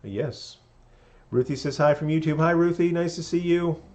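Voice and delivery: sly, gushing villainous hostess; scheming hotel owner. Acted. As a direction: purr it like a fake-friendly host. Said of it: "there's that lady from the front desk".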